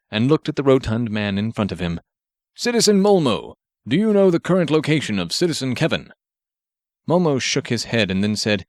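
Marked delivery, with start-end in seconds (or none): 2.5-6.1 a hint of a stiff formal hero voice; earnest, pompous hero, slightly raised; lightly voiced superhero. Grenade Man instructing Marv from the robot, lightly heroic voice.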